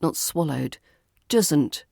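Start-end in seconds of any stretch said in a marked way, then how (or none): 1.3-1.9 "Doesn't" with a clear D and a crisp final T. Shown as a demonstration. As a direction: pronounce "Doesn't" cleanly. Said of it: "doesn't should have a clear D".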